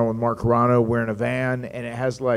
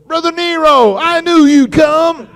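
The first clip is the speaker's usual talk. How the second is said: much higher, louder, slow dramatic greeting; Carl Anderson greeting; 8 dB louder, slower than usual. Retold or imitated. Anderson greeting the arriving Hardys, high, loud and drawn out. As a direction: hail him like a long-awaited hero. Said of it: "Carl Anderson says, he goes".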